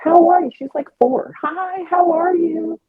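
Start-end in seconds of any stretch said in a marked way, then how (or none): 0.0-0.5 put-on high, chirpy little girl greeting. Woman imitating the sweet neighbor girl, much higher. 1.4-2.8 put-on high, chirpy little girl greeting. Woman imitating the sweet neighbor girl, much higher.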